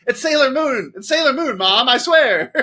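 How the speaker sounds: high, loud frantic pleading; bright magical girl. Retold or imitated. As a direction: insist it's just Sailor Moon, yelling high. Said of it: "and you'd be like".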